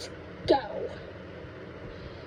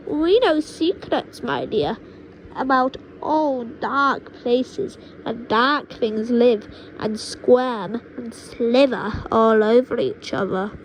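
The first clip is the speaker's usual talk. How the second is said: slow, louder menacing boast; witch grandma boasting; 4 dB louder than usual. Acted. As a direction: savour each dark word.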